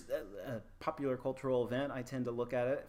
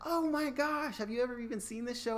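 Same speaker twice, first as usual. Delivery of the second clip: high-pitched, louder gasp of disbelief; mock astonishment; 14 semitones higher, 5 dB louder than usual. Professor to students named after Friends characters, astonished. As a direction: squeal it in amazement, then rush the question. Acted amazement at students' namesakes.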